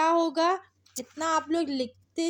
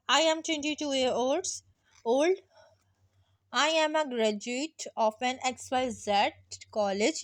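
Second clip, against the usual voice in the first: very slow, every word spaced out for writing; slow dictation; much slower than usual. Shown as a demonstration. Teacher dictating a CV summary to students, very slow. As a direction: dictate it so students can copy.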